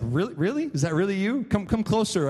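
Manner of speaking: lightly voiced doubtful old father, rising questions; a hint of suspicion, pitch jumping up on the repeat; Isaac. Failing father questioning his disguised son, mildly doubtful. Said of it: "Isaac is like".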